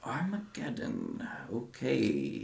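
muttered quietly under the breath. Voicing a character reacting to a farewell hug: muttered under his breath. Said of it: "you just hear under his breath".

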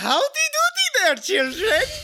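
put-on German accent with swooping pitch. Improvising a German who dreamed of being Santa, greeting children, Clevin von Sturkenstein German accent. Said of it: "How do you do a German accent?".

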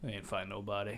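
said very softly, hushed, almost under the breath. Retelling what a man said in the lunchroom: retelling a very quiet remark. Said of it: "he very quietly went".

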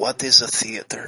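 low, hushed stage whisper. A player has Vargas lean back and ask Vevi; Vargas stage whisper. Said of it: "do the stage whisper with his hand over his mouth".

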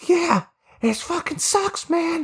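put-on man's voice pushed very high. Retelling what a man sitting next to them said, imitating his voice. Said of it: "it's actually really close to how he sounds".

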